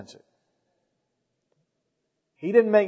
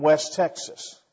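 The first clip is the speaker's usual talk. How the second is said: slow West Texas accent; slower than usual. Shown as a demonstration. Preacher giving another example of accents, West Texas accent. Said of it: "I can't do very many accents".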